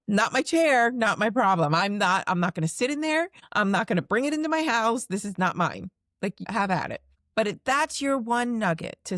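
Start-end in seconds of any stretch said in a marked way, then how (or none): 0.1-7.0 louder, breezy, laughing it off; laughing loud dismissal. Retold or imitated. To the listener, shrugging off others' problems, loud and laughing. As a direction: brush it away like it's nothing. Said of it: "That's what I say".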